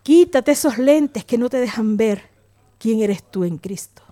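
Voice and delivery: slow, tender pastoral urging; fatherly counsel. Retold or imitated. Pastor counsels hurt young woman like a father, slow gentle urging. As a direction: imitate a pastor gently counselling, unhurried, savouring each phrase. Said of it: "Y le conté y me dice".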